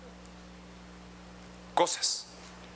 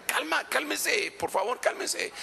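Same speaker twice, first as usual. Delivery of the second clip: soothing the flock; 7 semitones higher, slower than usual. Retold or imitated. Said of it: "les decía".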